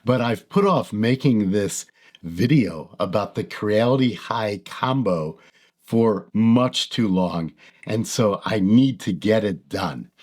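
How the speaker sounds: low, gravelly cowboy voice; hoarse and rough from being sick. Real, not acted. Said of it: "I apologize for my gravelly cowboy voice".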